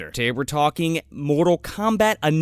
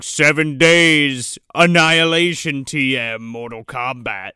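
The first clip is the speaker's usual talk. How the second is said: movie trailer voice; 4 semitones lower than usual. Retold or imitated. Mocking the movie's countdown.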